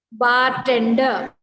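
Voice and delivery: slow, emphatic model of "bartender"; pronunciation demo. Shown as a demonstration. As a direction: spell out "bartender" by ear, part by part. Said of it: "then this R will be pronounced".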